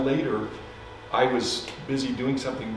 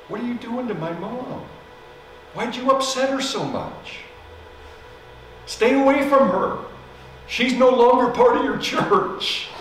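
high, loud, angry retort; angry accusation; 11 semitones higher, 3 dB louder than usual. Retold or imitated. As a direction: voice the furious son, rising higher. Angry kids phone the pastor.

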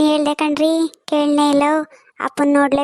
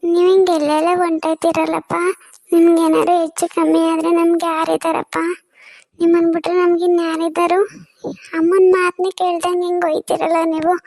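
tearful scolding; 3 semitones higher than usual. Acted. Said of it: "ಅಮ್ಮ, ಅಳ್ಬೇಡ ಕಣಮ್ಮ".

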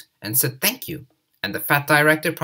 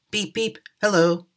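higher, chirpy little engine hello; cheerful engine greeting; 8 semitones higher than usual. Acted. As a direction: toot a bright greeting as Edward. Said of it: "Edward would say".

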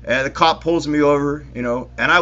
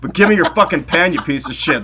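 mock angry rant. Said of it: "It's like".

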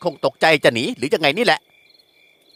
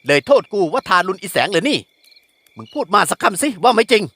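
scolding father voice, raised higher; angry father; 5 semitones higher than usual. Acted. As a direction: berate the son as a furious village headman. (พ่อดุลูกด้วยเสียงโกรธ)

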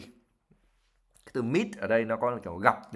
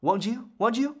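rising, higher uncertain question; 10 semitones higher than usual. Acted. Higher uncertain ask. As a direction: Ron seeking his friend's agreement unsure. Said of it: "he added uncertainly".

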